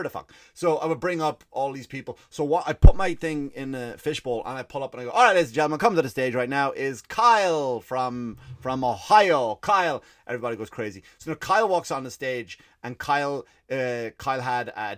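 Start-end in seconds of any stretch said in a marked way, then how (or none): 5.1-10.0 announcer voice. Retold or imitated. Hosting karaoke, announcing on stage.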